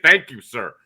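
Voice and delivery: mock timid thank you; meek reply. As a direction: answer like a scared inmate. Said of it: "and you say".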